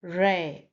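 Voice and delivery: "Re" pronounced "ray"; vowel as in day. Shown as a demonstration. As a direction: sound out "Re" to rhyme with day. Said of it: "as you say it in day".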